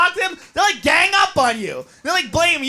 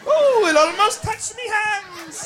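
mock English accent; 8 semitones higher, slower than usual. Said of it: "It's like".

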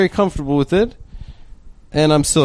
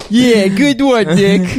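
sarcastic; 4 semitones higher, much slower than usual. Acted. Sarcastic mock reply.

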